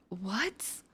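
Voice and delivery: breathless whispered what; a hushed, stunned question. Retold or imitated. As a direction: whisper it in disbelief at the rose. Stunned as he hands her a rose.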